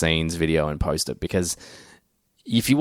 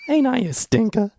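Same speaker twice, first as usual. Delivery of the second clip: impish Dracula line; 14 semitones higher than usual. Retold or imitated. Podcaster hamming up Dracula's line for his cohost, high and playful. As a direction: toss it off like a cheeky old rascal. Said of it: "he's like".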